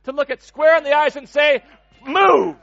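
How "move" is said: shout. Acted. Preacher commands the Red Sea.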